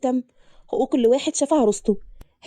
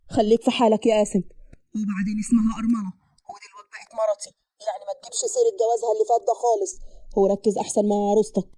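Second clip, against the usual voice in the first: lightly voiced man, lowered pitch; stern brother; 3 semitones lower, 3 dB quieter than usual. Man tells brother to mind his own bride, stern. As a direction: warn him firmly in a low voice.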